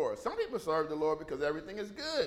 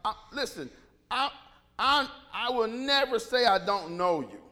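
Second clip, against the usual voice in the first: mildly indignant imitation, rising at the end; upset protest; 3 semitones higher, 3 dB louder than usual. Peter protests to Jesus he would never deny him, upset protest. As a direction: protest with emphatic, halting insistence. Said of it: "Peter who gets upset".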